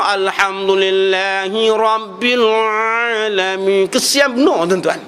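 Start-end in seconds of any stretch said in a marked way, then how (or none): 0.0-3.9 pushed, strained Quran recitation, slow. Shown as a demonstration. Teacher shows students the wrong strained recitation, pushed and slow. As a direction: bear down on every letter as a bad example. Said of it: "Ini teran tu tengok".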